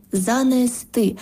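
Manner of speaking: занести drawn out slowly, stressed on the final сти; final-syllable stress. Shown as a demonstration. Language expert teaching stresses, last syllable stressed in занести. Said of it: "наголос на останній склад".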